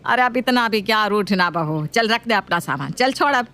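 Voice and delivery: a touch of pleading; coaxing mother-in-law. Acted.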